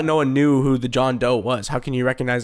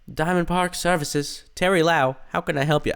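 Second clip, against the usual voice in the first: put-on old Hollywood transatlantic lilt; glamorous old Hollywood star voice; transatlantic accent; 5 semitones higher than usual. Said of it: "the transatlantic accent".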